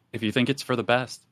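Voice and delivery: understated, flat reply. Acted. Marley answers Yersinia about taking the dose, flatly. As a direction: say it evenly, a little quietly. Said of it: "just flatly says".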